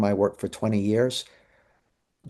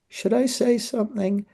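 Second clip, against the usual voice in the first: inner doubt; 10 semitones higher than usual. Retold or imitated. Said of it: "I'd go".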